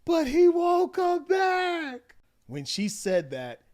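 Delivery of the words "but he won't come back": very high, slow, loud mock wail; hammed-up distraught yell. Wife crying out to her mom, exaggerated yelling. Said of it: "She probably said".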